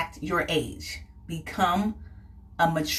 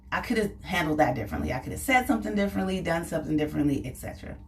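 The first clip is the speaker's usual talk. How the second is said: rushed regretful thought; 3 dB quieter, much faster than usual. Retold or imitated. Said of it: "and you think, like".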